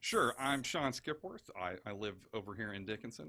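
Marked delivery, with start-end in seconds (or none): 0.0-1.5 deepened radio DJ voice; slow, smooth candidate introduction; politician voice. Pretend. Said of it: "Did your voice just change?".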